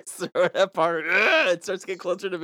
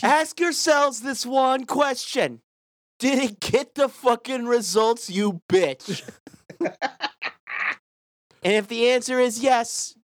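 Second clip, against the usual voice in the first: mock motivational speaker; 5 semitones higher, slower than usual. TED-talk motivational speaker.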